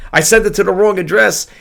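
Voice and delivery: mildly alarmed quote; retold concern. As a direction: mimic a buyer's worried message. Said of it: "he was concerned".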